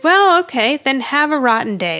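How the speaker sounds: lightly acted chirpy retort; cheery voice. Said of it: "she still says it in a cheery voice".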